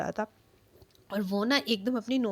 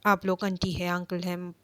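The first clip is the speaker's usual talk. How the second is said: fed up, rising to a frustrated demand; irritated husband losing patience with everyone; 4 dB louder than usual. Retold or imitated. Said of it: "irritate लेके".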